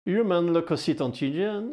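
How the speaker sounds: English said in a southwest French accent. Real, not acted. Teacher reading English terms in his southwest French accent. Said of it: "avec mon accent à moi, un accent du sud-ouest".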